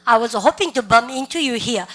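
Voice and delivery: very slow, each word spelled out for students; teacher's slow drill read; slow repeat-after-me. Shown as a demonstration. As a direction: model it slowly for the class to copy. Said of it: "시작".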